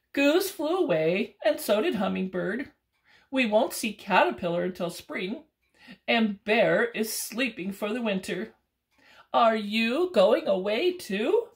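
a raccoon listing friends who left. Acted. Raccoon asking squirrel if he leaves too, lightly voiced.

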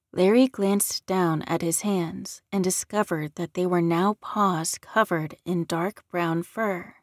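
plain reading voice

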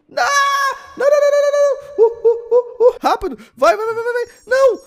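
frantic panic. Real, not acted. Gamer in a frantic near-fail, yelling high and loud. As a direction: scream through the close call.

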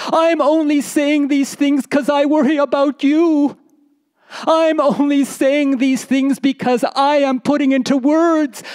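a storyteller voicing a wife stung by her husband's words; hurt wife. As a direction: cry out at your husband's cruelty. Wife hurt, near tears.

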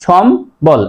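সম্বল in two clear parts, shom-bol; teacher's careful shom-bol for সম্বল; correct pronunciation. Shown as a demonstration. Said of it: "সঠিক উচ্চারণ হবে".

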